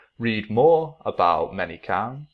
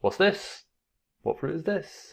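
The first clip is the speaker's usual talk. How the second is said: put-on teacher voice for kids; 9 semitones higher, 4 dB quieter than usual. Shown as a demonstration. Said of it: "And I would say".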